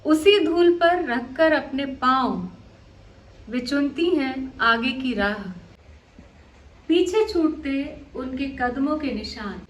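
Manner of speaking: measured poem reading, phrase by phrase with pauses; poetry recitation. Acted. Poet opens the programme with her verse on women walking, recited.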